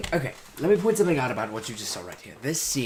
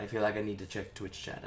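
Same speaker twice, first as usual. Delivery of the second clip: usual speaking voice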